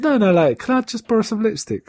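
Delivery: mock brush-off. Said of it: "He says".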